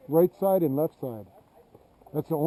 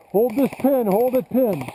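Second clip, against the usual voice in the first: shouted order; 7 semitones higher, 5 dB louder, slower than usual. Real, not acted. Ordering team at game end.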